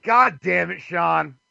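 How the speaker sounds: real sudden shout; startled curse. Real, not acted. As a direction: blurt it out, caught in a mistake. Caught misquoting the station number.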